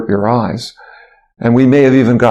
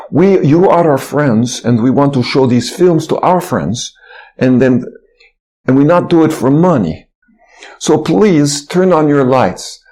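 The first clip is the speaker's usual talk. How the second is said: put-on Russian accent; 3 semitones higher than usual. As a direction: imitate a Russian man asking politely in a mild Russian accent. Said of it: "in his Russian accent".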